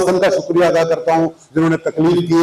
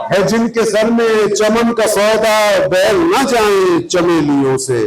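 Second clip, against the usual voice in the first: rhythmic verse with raised, sustained repeats; ghazal recitation; 2 semitones higher, slower than usual. Acted. Poet presenting his ghazal to listeners, mushaira recitation. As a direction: recite metrically, letting each couplet's ending fall.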